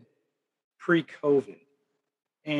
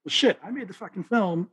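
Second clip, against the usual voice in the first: higher irritated outburst; gruff impression; 6 semitones higher than usual. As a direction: toss it off like an annoyed star. Richard Pryor quoted, put-on voice.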